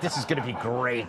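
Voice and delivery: lightly voiced gleeful Cheney; a hint of a pleased old boss; smug Cheney aside. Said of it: "he's just got that smile, like".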